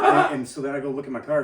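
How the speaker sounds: laughing. Real, not acted.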